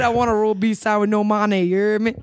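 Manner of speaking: low, garbled New Orleans accent imitation; customer's thick accent. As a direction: run the order together in a thick accent. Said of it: "He said".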